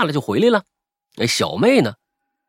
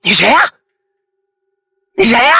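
furious yelling, much higher and louder; angry shout; 8 semitones higher, 9 dB louder, faster than usual. Retold or imitated. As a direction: bark the question at a stranger. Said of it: "就对着我小妹就喊啊". (愤怒地大喊)

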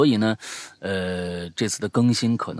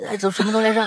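laughing; 13 semitones higher, 5 dB louder, much faster than usual. Real, not acted. Cracks up mid-sentence.

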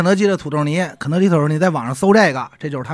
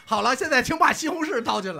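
robot voice; 5 semitones higher than usual. Retold or imitated. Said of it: "那机器人会说".

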